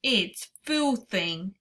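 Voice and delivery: sputtering through a mouthful; slow words round a big bite; mouth full. Acted. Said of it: "he sputtered, speaking with his mouth full".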